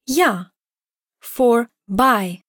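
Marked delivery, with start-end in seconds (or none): 0.0-0.5 ya said with a y sound; Greek sound. Shown as a demonstration. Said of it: "You heard the sound".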